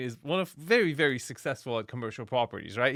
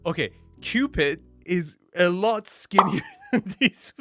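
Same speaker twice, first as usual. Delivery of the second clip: surprised; 4 semitones higher, 6 dB louder than usual. Real, not acted. Shocked at giant Cupid murals.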